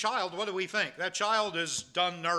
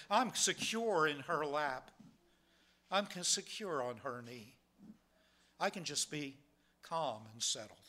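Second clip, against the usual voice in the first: soft, low and soothing, with pauses; content, settled child; 3 semitones lower, 7 dB quieter than usual. Acted. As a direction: voice a child resting securely with Mom, lightly acted. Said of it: "just content".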